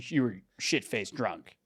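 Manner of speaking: teasing stage whisper. Real, not acted. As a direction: whisper it as a jab.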